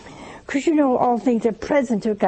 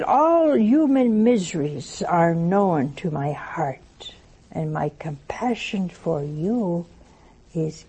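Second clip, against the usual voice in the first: voicing Jesus; 5 semitones lower, slower than usual. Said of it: "These are the words of Jesus".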